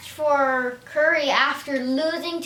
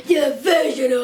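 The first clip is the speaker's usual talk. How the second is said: lightly voiced old person, louder, laughing; 4 dB louder than usual. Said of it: "here's my old person voice".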